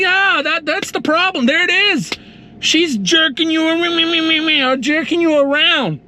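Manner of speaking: eureka realization. Retold or imitated. Telling friend the problem.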